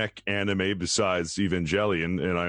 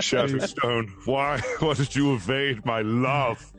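lightly voiced Wiener Lock; 4 semitones higher, slower than usual. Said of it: "heard his voice".

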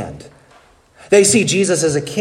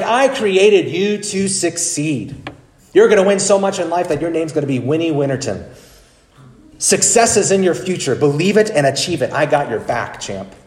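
Zig Ziglar impression; 3 semitones higher than usual. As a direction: pump them up like a success coach. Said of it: "He should say things like".

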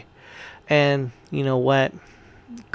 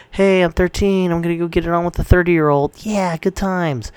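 high, breezy teenage voice, lightly put on; mock a girl who thinks it's no big deal; sarcastic teen "good times"; 5 semitones higher than usual. Mocking a carefree teen girl.

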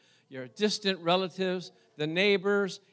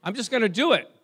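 mock mad; 3 semitones higher, 5 dB louder than usual. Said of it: "I started getting happy".

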